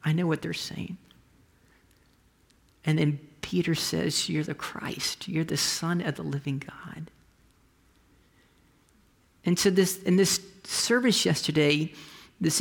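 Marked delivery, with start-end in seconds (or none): 4.3-7.1 hushed confession. Acted. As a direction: say it in awe, barely voiced. Peter's confession retold.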